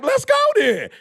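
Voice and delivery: high, eager shout of approval; excited shout. Retold or imitated. Hyping up a friend ready to build, excited shout. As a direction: yell it like you can't wait to start. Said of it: "I'm like".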